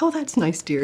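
high, placating nurse voice; patronizing nurse. Retold or imitated. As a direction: humor the patient like a nurse patting her hand. Nurse humoring patient.

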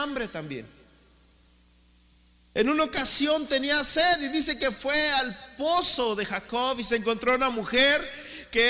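rising, loud preacher's build; fiery sermon delivery; preaching. Acted. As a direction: preach it with mounting force. Preaching at force.

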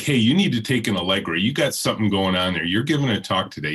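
hurried mock nag from the doorway; imitating nagging wife. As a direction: rattle it off like a fussing spouse. Wife nagging about his voice.

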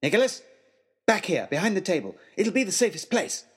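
mild urgent call. Acted. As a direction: call him back to safety. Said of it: "called to our host".

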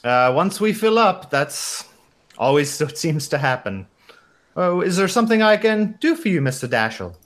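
put-on lightly German-accented hotel receptionist; Ramona. Receptionist offers a flirting guest help, light German accent. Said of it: "some variation of my shitty German accent".

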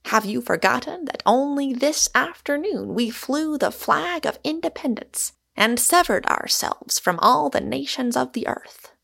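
high, grand oratory; lofty, ringing challenge in a lifted voice. A narrator's reading. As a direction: declaim like a mock-heroic orator, pitch well up. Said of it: "raising his voice".

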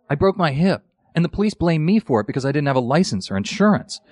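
lightly voiced complaining old man; complaining Jewish grandpa. Actor performing his first commercial line, like a complaining grandpa. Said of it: "sounds like a Jewish grandpa".

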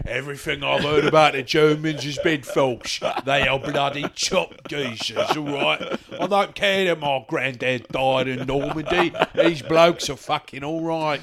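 English geezer. Acted. Co-host voices the English gangster's reply.

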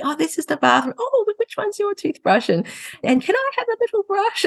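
high small toy donkey; sweet tiny creature asking; little donkey voice. Retold or imitated. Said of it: "putting on the little voice".

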